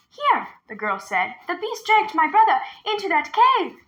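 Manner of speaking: put-on high, urgent little girl's voice; a frightened girl luring the tiger; young girl. A narrator's reading. Girl leading the tiger to the well, high and urgent.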